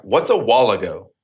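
"while ago" said as one odd word, "wallago"; echoing dad's pronunciation. Retold or imitated. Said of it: "wall a go or something".

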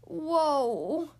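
long drawn-out mock groan; wobbly groaned whoa. Animals on a swaying branch, groaning in alarm. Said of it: "groaned Tortoise and Bird".

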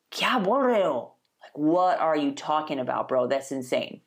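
incredulous. Retold or imitated. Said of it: "totally off the wall and you're just like".

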